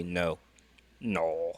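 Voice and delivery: imitated Australian "no"; light mock Australian accent on "no". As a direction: say "no" with an Aussie vowel. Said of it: "how you guys say".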